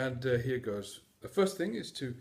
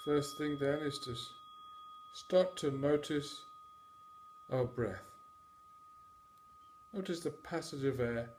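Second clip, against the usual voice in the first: calm, measured meditation delivery with long pauses; guided meditation. Acted. Mindfulness teacher guiding listeners to notice their breath, guided meditation. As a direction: guide them through the breath in unhurried, separate phrases.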